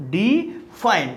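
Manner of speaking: "डिफाइंड" split in two, weight on the second syllable; stress on second syllable. Shown as a demonstration. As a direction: slowly say "डिफाइंड" as di-FINE, second part stressed. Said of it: "तो हम लोग ऐसे बोलते हैं".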